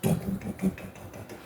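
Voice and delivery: very soft thudding dums; hushed vocalized thumps; imitated footsteps. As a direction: tap out quick steps under the voice. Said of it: "rock like this".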